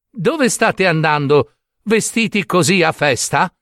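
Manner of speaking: naive, interested asking; curious question. Acted. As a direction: ask the brothers with open curiosity.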